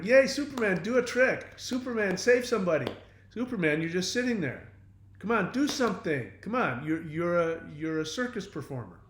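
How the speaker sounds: high, loud mock cheering and demanding; mock cheering fan. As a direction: cheer him on like a pushy crowd. Mocking demanding fans.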